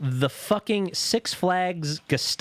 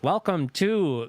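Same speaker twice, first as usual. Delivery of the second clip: slow, lightly voiced robot announcer; 3 semitones higher, slower than usual. Robot greets visitors in the tower line, slow mock announcer voice. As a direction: draw it out like an automated greeting. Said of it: "there's a robot voice like".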